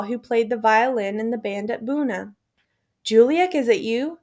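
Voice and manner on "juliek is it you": high, loud call into the dark. Acted. Eliezer calls out to Juliek in the dark, high and loud. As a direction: call his name to find him. Calling out in crushed barracks.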